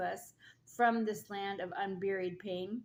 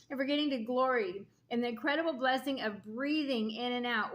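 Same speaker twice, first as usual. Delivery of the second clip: laughing. Real, not acted. Laughs at own coughing fit.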